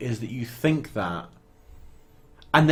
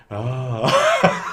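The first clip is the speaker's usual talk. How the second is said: retold gasp; 4 dB louder than usual. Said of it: "turns around and goes".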